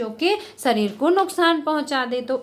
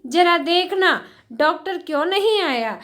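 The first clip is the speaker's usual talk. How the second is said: worried mother calling out, lightly acted; 4 semitones higher than usual. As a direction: urgently ask where the doctor is. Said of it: "माँ यहाँ पर बहुत चिंतित होती है".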